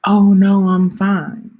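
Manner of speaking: quick bright mock I'm-fine brush-off; breezy brush-off. Imitating herself brushing off people who offer help, breezy and loud. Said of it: "I'm less likely now to say".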